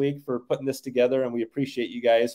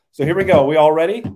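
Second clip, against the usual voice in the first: hyped giveaway announcement; 3 semitones higher, 9 dB louder than usual. Real, not acted. Hyping the giveaway moment.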